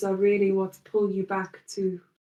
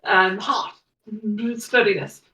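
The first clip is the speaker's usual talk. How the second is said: lightly voiced proud nobleman, building louder; proud noble Greaves; 6 dB louder than usual. Greaves boasting to the party, lightly voiced and swelling louder. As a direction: boast of his nation with growing pride. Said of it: "the Greaves is like".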